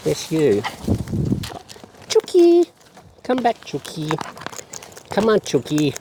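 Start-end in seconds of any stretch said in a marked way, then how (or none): 2.1-5.9 high sharp call to a chicken. Real, not acted. Calling the bird.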